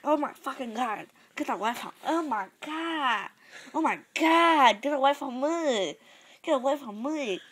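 hammed-up plea to be left alone; mock panic. Acts out fleeing in put-on panic.

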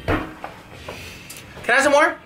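slow breathy begging turkey; drawn-out whispery begging, very slow. Pretend. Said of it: "Your impression of a turkey, go".

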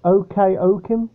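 Okeokim as oh-kay-oh-kim, rising like a question; hesitant Okeokim, oh-kay-oh-kim; tentative pronunciation. Shown as a demonstration. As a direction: ask it with a long first oh in Okeokim. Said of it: "not sure how this is pronounced".

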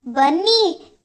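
loud, alarmed cry for help; narrated shout of dismay; calling out. A narrator's reading. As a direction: call them over urgently, raising the voice. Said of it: "ಎಂದು ಕೂಗಿದೆ".

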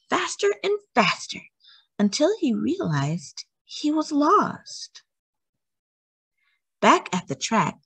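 lively storybook reading, bright and expressive; reading to children. A narrator's reading. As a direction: read it like a bedtime story to a little one. Reads a picture book aloud.

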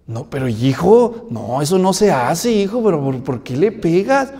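put-on a dad putting on a show of correcting his boy; mild scolding father. Padre regañando suavemente al niño frente a la iglesia.

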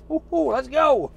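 high, loud excited whoop. Real, not acted. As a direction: whoop it up, raring to go. Hyped about setting off.

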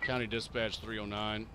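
calm radio cop voice. Acted. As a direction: lay it out like a deputy on the radio. Radio dispatch call.

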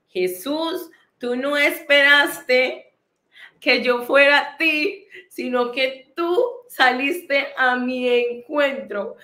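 slow, deliberate words to Jesus, with pauses; heartfelt prayer. Retold or imitated. Woman recalling kneeling before Jesus in the street, heartfelt slow prayer. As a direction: retell an awed prayer, drawing out each phrase.

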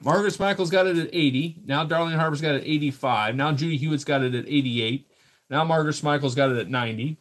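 rhythmic auction bid calling; steady, sing-out auctioneer patter; auctioneer's bid call. Real, not acted. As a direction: call out each new bid to the room. Calls live online auction bids.

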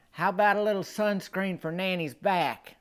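sweet granny ask. Retold or imitated. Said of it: "I just hear her say".

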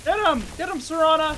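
loud urgent call to attack; cover me shout. Real, not acted. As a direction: urge her on loudly. Urging companion in fight.

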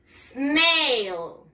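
"snail" drawn out with a long falling glide; "snail" as one long, clearly sounded word; pronunciation model. Shown as a demonstration. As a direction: stretch out "snail" slowly for learners to copy. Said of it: "En inglés se dice".

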